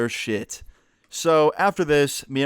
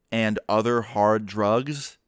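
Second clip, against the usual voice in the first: slow disbelieving echo of and other hard drugs; incredulous echo; 2 semitones lower, much slower than usual. Retold or imitated. Incredulous echo. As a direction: mom repeating the dad's claim back to him, slow disbelief. Mom echoing accusation incredulously.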